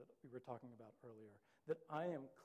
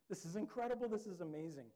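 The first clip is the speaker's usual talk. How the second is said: joyful; 4 semitones higher, 5 dB louder than usual. Retold or imitated. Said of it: "It's that same feeling like".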